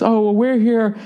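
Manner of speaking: high, drawn-out imitation of his wife; wife's voice. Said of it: "She goes".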